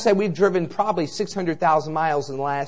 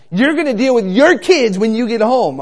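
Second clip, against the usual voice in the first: higher, louder mock wife voice; hammed-up scolding wife on the phone; wife on the phone warning husband, mock shrill; imitating wife; 8 semitones higher, 9 dB louder than usual. Wife calls husband about kids.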